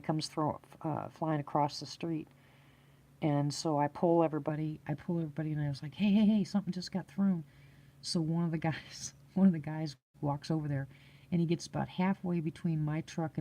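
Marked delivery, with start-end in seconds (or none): 5.9-7.4 higher-pitched call of alarm; retold alert. Warning two friends about a thrown stick, retold alert. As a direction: call out to warn your companions, retold.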